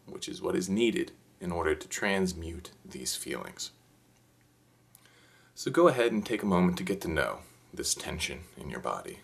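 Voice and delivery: calm, measured meditation guide; lightly hushed instructional meditation voice; guided meditation. Acted. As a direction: gently guide listeners through it, with unhurried pauses.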